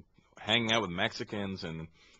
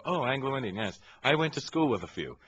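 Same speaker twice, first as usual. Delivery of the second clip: Indian accent impression; 4 semitones higher than usual. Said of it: "Indians from India ... will go".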